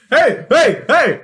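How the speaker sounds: high, loud crow calls; cawing hey. Acted. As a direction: yell it like a crow in the lot. Crows calling out.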